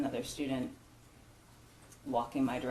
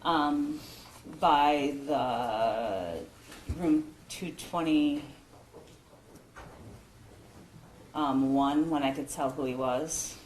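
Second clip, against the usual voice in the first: raised, projected witness answer with halting pauses; louder, careful, haltingly paced testimony; teacher voice; 4 dB louder, slower than usual. Real, not acted. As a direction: speak up so the room can hear. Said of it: "use your teacher voice".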